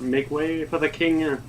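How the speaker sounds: a slow herald's call from far away; distant royal herald shout. Acted. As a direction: announce the king from across a hall. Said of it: "someone in the distance shout".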